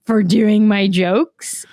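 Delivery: laughing, stretched-out mock astonishment; thrilled disbelief. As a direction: draw it out in giddy disbelief. Acting out thrilled disbelief at pay.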